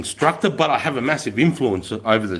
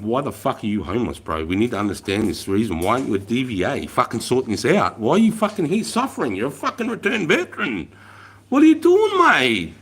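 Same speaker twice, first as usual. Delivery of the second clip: imagined confronting. Retold or imitated. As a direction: start level, then explode in frustration at the vet. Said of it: "going down there and going".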